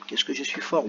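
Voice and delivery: lightly mock self-praise; playful boast after the rhyme. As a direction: brag jokingly.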